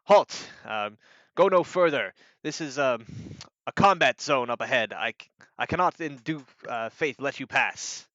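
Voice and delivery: loud opening order, then firm and halting; guard. Acted. Guard ushering people away, loud then firm. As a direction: stop them like a guard on duty. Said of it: "he holds out an arm and he says".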